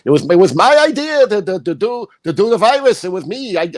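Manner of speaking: hammed-up boast about my David; mock fawning fan. Mocking the book-signing crowd, a hammed-up boasting voice.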